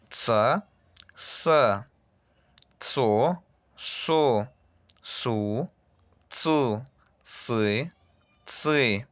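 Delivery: "Tsa" with a ts, "sa" with a plain s, back and forth; ts versus s. Shown as a demonstration. Teacher to class, ts and s contrasted slowly. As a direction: contrast the ts and s syllables crisply. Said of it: "Hay que oír esta diferencia".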